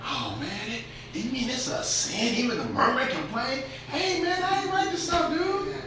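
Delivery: soft, high-pitched whine; hushed squeaky back-and-forth with an objector; mock protest. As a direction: play it small and high, half under the voice. Preacher voices objector, then himself replying.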